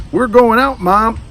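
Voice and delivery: bright loud call-out. Acted. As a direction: call to mom in another room. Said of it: "he called".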